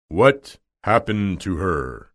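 lightly voiced imposing wizard; Oz's voice. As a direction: draw the question out grandly. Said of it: "asked the voice".

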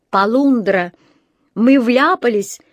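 loud, drawn-out warning; alarmed exclamation. A narrator's reading. Boy spots trouble coming their way, alarmed exclamation. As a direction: exclaim it like a lookout. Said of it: "воскликнул Джонатан".

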